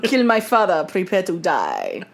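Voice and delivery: hammed-up Spanish avenger with a slow, low finish; mock Spanish accent. Co-host spoofing a vengeful swordsman as cheese, mock Spanish accent. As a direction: play a Spanish swordsman, lightly overdone.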